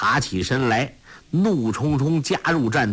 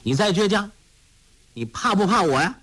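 bullying shout; 8 semitones higher, faster than usual. A narrator's reading. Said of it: "喝道".

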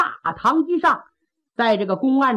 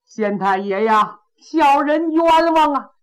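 loud plea. Acted. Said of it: "这大个子嗓门儿挺亮".

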